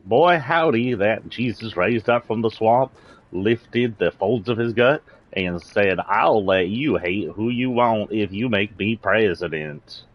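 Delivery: hammed-up Southern drawl, slow and stretched; Southern accent. Vlogger mocking a party's swamp savior, exaggerated Southern accent. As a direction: tell it in a thick, folksy Southern accent. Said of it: "Like my weird southern accent".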